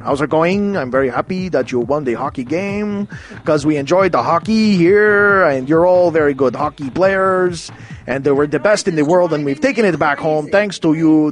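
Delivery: lightly voiced politician, words pushed out one side of the mouth; a hint of a prime minister speaking from the corner of the mouth; side-of-mouth Jean Chrétien. Prime minister phoning the hockey team, lightly voiced side-of-mouth talk. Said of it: "I'm talking out the side of my mouth".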